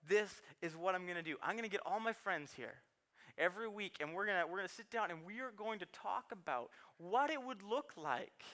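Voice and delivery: a hint of a kid pitching a plan to dad; scheming little boy. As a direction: lay out the plan like a toddler with a big idea. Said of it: "he's like".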